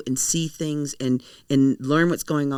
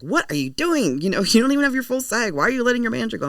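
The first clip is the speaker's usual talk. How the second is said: higher-pitched imitation of disbelieving friends; incredulous objection; 8 semitones higher, 3 dB louder than usual. Everyone to an actress who fired her manager, mock incredulous. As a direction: mimic everyone's alarmed questioning, pitch climbing.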